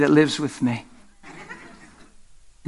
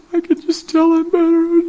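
put-on high, bright-eyed young girl, louder; girl's voice; 13 semitones higher, 5 dB louder than usual. Subway girl telling the preacher she feels better. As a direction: lift the voice up like the healed girl. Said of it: "What she said".

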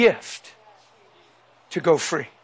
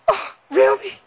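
high, small voice of the wife; imitated wife; 13 semitones higher than usual. Wife answers husband's compliment in hospital, imitated high voice. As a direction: mimic her in a tiny high voice.

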